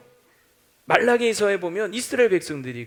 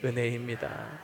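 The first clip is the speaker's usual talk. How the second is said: congregation response; 7 semitones lower, 9 dB quieter than usual. Shown as a demonstration. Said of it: "시작".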